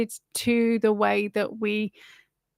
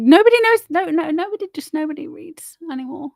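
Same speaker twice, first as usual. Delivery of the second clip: much higher and louder, fed up; exasperated outburst; 6 semitones higher, 4 dB louder, faster than usual. Real, not acted. Ranting at viewers about ignorance, loud exasperation. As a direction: burst out in disbelief at everyone.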